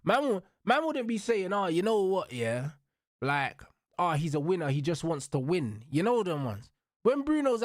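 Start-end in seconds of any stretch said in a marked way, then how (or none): 1.5-5.8 lower, mocking impression of a fawning pundit. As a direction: sneer it like a pundit gushing over Bruno. Mocking pundits praising Bruno.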